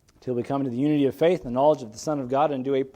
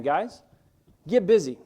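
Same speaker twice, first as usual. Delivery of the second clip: firm, higher-pitched order; pointed command; 3 semitones higher, 4 dB louder than usual. Retold or imitated. Preacher voices the command to work, pointedly. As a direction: land it as a direct order. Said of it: "Very pointed command".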